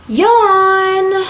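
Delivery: high, drawn-out spoken yawn; mock yawn. Vlogger bored by landscape footage, loud mock yawn. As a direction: sing out the word in pretend boredom.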